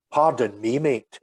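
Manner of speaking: challenge in his voice. Retold or imitated. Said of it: "the challenge in his voice".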